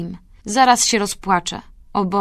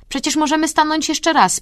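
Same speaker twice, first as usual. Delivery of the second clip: consoling; 9 semitones higher than usual. A narrator's reading. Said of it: "pociesza mnie Nadine".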